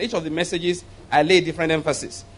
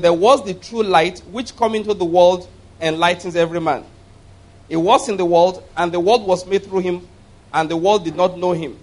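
solemn scripture reading from the pulpit. Acted. Reads verse nine aloud.

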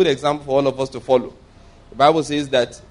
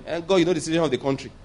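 mock excuse; 4 dB quieter, faster than usual. Acted excuse to God for sin.

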